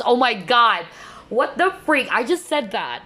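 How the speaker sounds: high, stunned disbelief; shocked surprise. Real, not acted. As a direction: caught off guard, real astonishment. Reading matches her earlier words.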